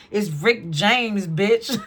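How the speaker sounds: drawn-out, loud catchphrase, lightly impersonated; loud, slow comic catchphrase; a singer. Acted. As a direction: stretch the name out and punch the last word. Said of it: "I just heard him".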